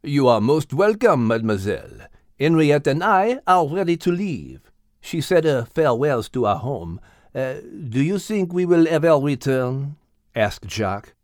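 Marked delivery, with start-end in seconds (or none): 0.0-10.0 lightly voiced wistful rooster; French-accented rooster. Jacques asking about returning, wistful French accent.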